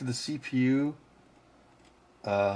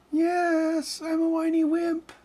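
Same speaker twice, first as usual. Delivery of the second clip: much higher squeaky kitten voice; voicing the cat; slower than usual. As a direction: answer for the cat like a tiny whiny kitten. Answering as the cat.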